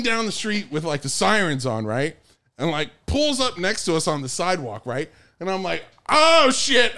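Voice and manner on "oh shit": high, loud comic alarm; mock panic. Stoner as the cop car pulls up, mock panic. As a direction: blurt it out in hammed-up dread.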